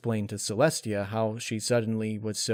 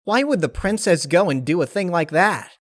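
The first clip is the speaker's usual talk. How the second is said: much higher, louder tomboy pony voice; sudden high startled cry; shocked Rainbow Dash; 8 semitones higher, 8 dB louder than usual. Acted. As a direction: blurt it out in a high character voice. Rainbow Dash questions princess's decision.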